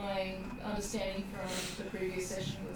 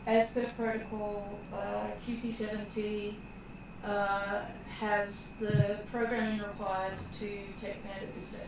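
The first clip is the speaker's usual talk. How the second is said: lightly voiced stiff protocol droid. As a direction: recite it like a formal droid. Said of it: "in my droid voice".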